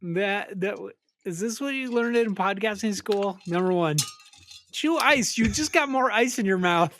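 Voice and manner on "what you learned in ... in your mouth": mock lecture. Real, not acted. Mocking podcasting school lessons.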